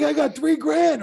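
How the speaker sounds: very high, slow squeaky voice; indignant disbelief. Retold or imitated. Referee telling the wrestlers his pay, very high slow indignant squeak. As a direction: squeak out your tiny pay in mock outrage.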